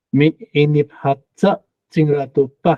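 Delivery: 哈扎 said with a light 哈, weighted 扎; stress at the back. Shown as a demonstration. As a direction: break it up and land on 扎. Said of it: "重音在后".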